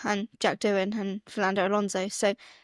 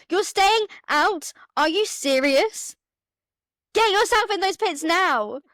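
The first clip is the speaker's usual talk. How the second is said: higher, slow incredulous pleading; exasperated retold plea; 9 semitones higher, 4 dB louder, slower than usual. Fan retelling yelling at Ferrari to pit, higher and slow. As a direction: beg them to pit, disbelieving.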